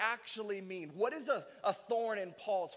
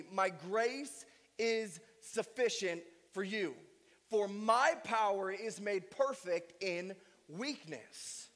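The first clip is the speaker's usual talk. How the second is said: solemn scripture reading; slower than usual. Acted. Reading God's words to Paul.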